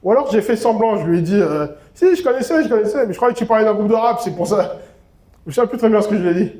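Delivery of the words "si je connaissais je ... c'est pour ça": higher, fast bluffing excuse; faking it. Retold or imitated. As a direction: rush out a fake excuse. Pretending he knew.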